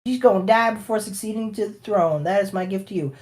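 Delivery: high mock villain voice, cursing; laying a curse. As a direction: ham up a cackling curse. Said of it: "she's like".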